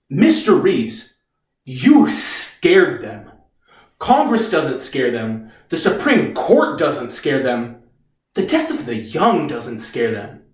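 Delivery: slow, low, deliberate delivery; grave lawyer. Acted. Lawyer tells Reeves he scared them, slow and grave. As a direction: let each sentence land slowly and heavily.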